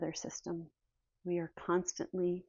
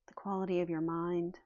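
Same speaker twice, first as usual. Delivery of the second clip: softer, unhurried guidance with long pauses; calm meditation leading, leaving space between phrases; guided meditation; 5 dB quieter than usual. Real, not acted. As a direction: guide the listeners gently through breath and noticing. Leads guided breathing meditation.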